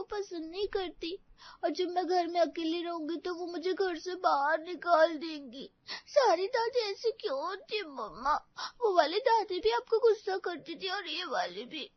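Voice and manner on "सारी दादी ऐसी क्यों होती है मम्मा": tearful question. Acted. Child upset about grandmother.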